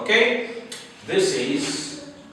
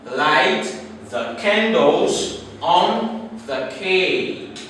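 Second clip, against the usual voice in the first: slow example read; 3 semitones higher, much slower than usual. Shown as a demonstration. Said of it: "the first one is".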